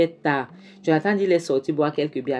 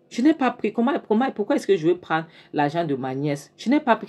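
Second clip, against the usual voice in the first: protesting denial; 4 semitones higher than usual. Retold or imitated. Accused woman protesting.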